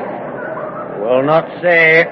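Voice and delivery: slow, stubborn refusal. Acted. Stubborn peasant refusing the reporter, slow and dogged. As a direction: dig in and refuse to answer.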